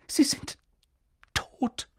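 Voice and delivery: breathless whisper; barely dares say it; whispering the news of death; whispered dread. A narrator's reading. McGonagall voices the terrible news.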